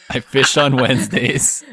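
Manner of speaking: slow, mock-solemn echo. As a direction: repeat it slowly like a motto.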